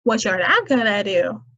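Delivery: stern mother voice. Shown as a demonstration. Mother warning a child not to test her, stern. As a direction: warn like a no-nonsense mom.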